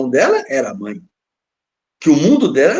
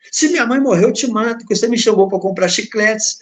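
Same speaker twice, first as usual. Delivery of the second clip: imitating an angry boy; 5 semitones higher, 3 dB louder than usual. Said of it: "o pequeno avançou no grande".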